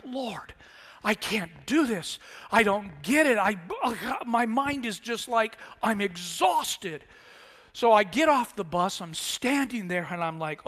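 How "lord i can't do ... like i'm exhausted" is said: slow, pleading and spent; exhausted slow lament; weary prayer. Retold or imitated. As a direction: beg the Lord, drained. Praying in despair.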